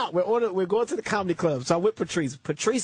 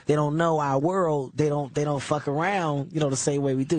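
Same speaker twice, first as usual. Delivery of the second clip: low placating; 6 semitones lower than usual. Retold or imitated. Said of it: "I said".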